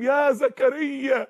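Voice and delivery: slow, stretched-out solemn call; lightly voiced heavenly herald; great heavenly voice. A mighty voice suddenly calling Zakaria, solemn heavenly call. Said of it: "وفجأة يسمع صوت عظيم".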